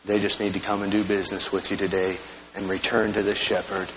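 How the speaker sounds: fervent pastor's prayer, pleading; earnest prayer. Real, not acted. Pastor praying over the church for lost people to be saved. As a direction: pray for the lost with urgency.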